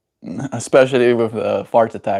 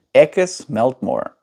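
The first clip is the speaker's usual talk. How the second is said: slow Cape accent, "Ik" with a raised vowel; 2 semitones higher than usual. Shown as a demonstration. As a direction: demonstrate the K P accent on "Ik is Meltmore". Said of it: "in the K P accent".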